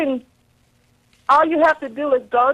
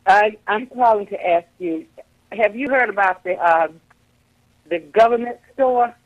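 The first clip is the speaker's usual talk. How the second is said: radio breaking up; faster than usual. Real, not acted. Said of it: "your voice is going in and out".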